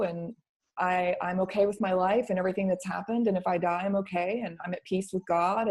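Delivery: soft, sincere retold plea; quiet surrender. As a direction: confide it softly, letting go. Retold surrender to the divine being.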